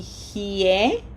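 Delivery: hie with an h, then both i and e heard; teacher isolating the syllable hie; both vowels sounded. Shown as a demonstration. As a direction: sound each vowel in hie, ending on a rise. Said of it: "pronounce each one of them".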